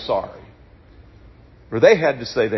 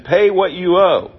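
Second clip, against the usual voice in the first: slow, louder, higher, a hard demand; demanding payment; 5 semitones higher, 4 dB louder, slower than usual. Acted. Servant choking a fellow servant, slow hard demand. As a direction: lean on him for the debt.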